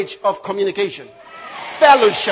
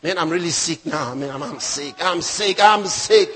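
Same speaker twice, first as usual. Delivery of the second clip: tag; 8 semitones lower than usual. Retold or imitated. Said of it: "some people like it".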